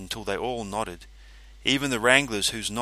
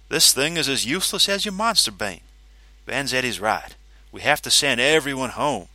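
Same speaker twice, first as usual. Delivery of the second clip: higher, dismissive scorn; scornful; 4 semitones higher, 5 dB louder than usual. Acted. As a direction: brush it off with contempt. Kitamariki voiced, scornful.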